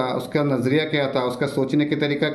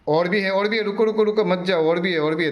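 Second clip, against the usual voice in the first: playful wait, there's more; excited call to stay; 4 semitones higher than usual. Real, not acted. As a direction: call them back before they leave. Teacher calls students to stay.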